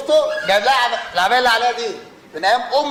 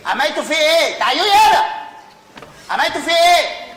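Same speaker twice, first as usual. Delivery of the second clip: alarmed; 5 semitones higher than usual. Acted. Son demanding what the family did to his father, alarmed shout. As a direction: call them over in a panic.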